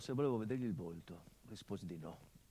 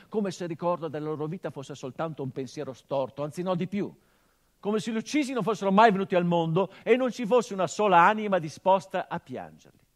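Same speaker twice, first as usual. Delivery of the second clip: louder and higher to a full-voiced peak, slowing at the end; building indignant outcry; 7 semitones higher, 15 dB louder than usual. Son decrying how the murdered are erased, a swelling outcry. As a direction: let the outrage swell to the top, then drag the last words. Climax condemning the killers.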